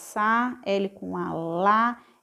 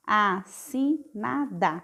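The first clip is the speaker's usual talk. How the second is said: slow reading; slower than usual. Shown as a demonstration.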